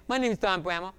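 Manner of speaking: mild cartoonish speech impediment, R said as W; Elmer Fudd. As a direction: childhood self who can't say his R's. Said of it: "I sounded like Elmer Fudd's long-lost cousin".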